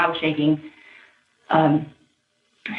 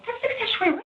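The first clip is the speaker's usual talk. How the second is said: much higher, quoted disbelief; retold outraged self; 6 dB quieter, faster than usual. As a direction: voice jumps up as she relives it. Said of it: "And I go".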